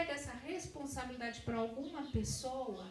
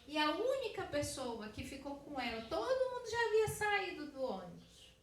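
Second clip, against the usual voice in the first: raised, emphatic testimony; emphatic preaching; 3 semitones higher, 5 dB louder than usual. Real, not acted. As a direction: drive it home to the congregation. Preaching climax of the story.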